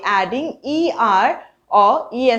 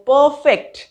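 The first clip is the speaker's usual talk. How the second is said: परफेक्ट broken in two, पर then फेक्ट; split into syllables; 4 semitones higher, 3 dB louder than usual. Shown as a demonstration. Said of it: "इसको हम तोड़ के बोल सकते हैं". (परफेक्ट को दो हिस्सों में तोड़कर)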